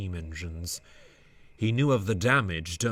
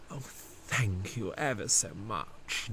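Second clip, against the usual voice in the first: slow, softer grateful thanks; grinning; 6 dB quieter than usual. Acted. Dudley thanking Bear for taking his train, softly grateful. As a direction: thank him from the heart. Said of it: "Dudley grinned".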